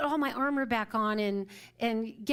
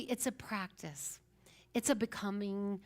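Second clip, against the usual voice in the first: hushed realization; 2 semitones lower, 5 dB quieter than usual. Retold or imitated.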